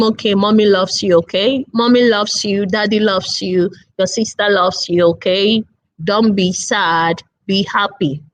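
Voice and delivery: calm him down like a mom at bedtime; soothing mother. Retold or imitated. Mother comforting her sad son.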